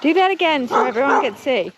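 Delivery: high, coaxing pet voice. Real, not acted. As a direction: coax the animal sweetly. Coaxing the sheep.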